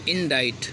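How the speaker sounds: "इंडाइट" said in-dite; silent c. Shown as a demonstration. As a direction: say "इंडाइट" with no k before the t. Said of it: "लेकिन इंडाइट पढ़ते हैं".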